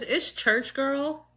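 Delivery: put-on slow, high sing-song church girl; churchy drawl. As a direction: stretch it out like a church girl announcing herself. Intro catchphrase, drawn out.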